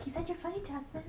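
hushed whisper, barely audible; whispered aside. Real, not acted. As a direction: whisper it under your breath. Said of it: "Oh, you didn't hear me".

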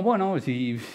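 quiet, unsure mumble of someone ignored at a party; a touch of the shy outsider, voice dropping; awkward mumble. Retold or imitated. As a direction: mumble it, lost and alone in a corner. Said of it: "tú estás así como".

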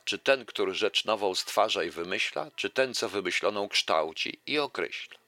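lively recital of a verse fable; fable reading. Acted. Lecturer reciting a fable to the audience, lively recital. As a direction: read the fable out to the audience with relish.

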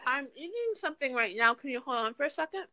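talking with food in mouth; mouth full. Real, not acted. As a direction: speak through a mouthful. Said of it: "My mouth's full".

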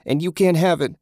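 high, loud whine; whining. A narrator's reading. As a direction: whine it like a child. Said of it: "he whined".

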